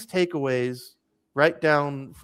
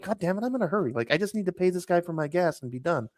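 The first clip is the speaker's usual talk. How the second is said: annoyed inner grumble; 3 semitones higher, 4 dB quieter, faster than usual. Retold or imitated. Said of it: "I was annoyed 'cause I'm like".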